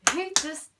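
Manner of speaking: hammed-up frustrated cry; fed-up outburst. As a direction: vent it like you've had enough. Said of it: "And I was like".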